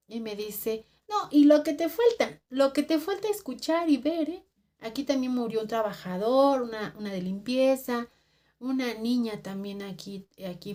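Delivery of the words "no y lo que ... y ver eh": high, loud knowing warning; imitated emphatic warning. Cleaning lady warning of more hauntings, emphatic. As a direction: push it out as a retold caution.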